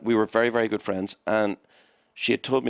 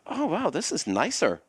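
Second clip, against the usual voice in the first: mock impressed; 8 semitones higher, slower than usual. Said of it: "the staff go".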